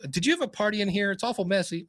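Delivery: teasing the cat. Pretend. Scolding the cat playfully.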